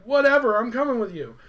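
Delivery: high, loud mocking hero voice; mock dismissive. Titus giving in to Orin, mock dismissive and high. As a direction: throw it out as an exaggerated retort.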